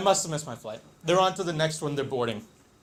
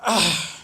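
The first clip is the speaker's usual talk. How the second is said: exasperated groan; 5 dB louder than usual. Retold or imitated. End of retold cursing fit.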